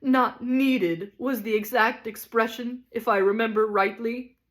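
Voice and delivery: a ham tragedian raging at his wife; stormed. Acted. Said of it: "he stormed".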